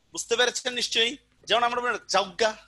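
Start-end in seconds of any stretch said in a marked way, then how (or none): 2.1-2.6 জাউগা as "jaugga", u glide before the g; colloquial pronunciation. Shown as a demonstration. Teacher quotes everyday speech, colloquial epenthetic u. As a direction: say জাউগা with au in the first syllable. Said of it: "কথাবার্তা বলি না আমরা এইভাবে".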